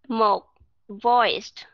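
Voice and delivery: "voiced" said out firmly with full voice; voiced sound. Shown as a demonstration. Teacher showing students the voiced category, voiced sound. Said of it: "có nghĩa là mình nói ra âm".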